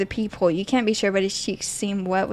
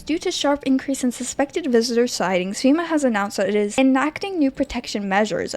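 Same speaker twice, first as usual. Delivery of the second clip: newsreader voice. Acted. Reads game news bulletin.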